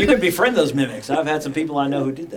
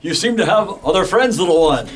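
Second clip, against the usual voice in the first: orc warrior voice. Acted. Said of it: "this is the voice I've decided to use".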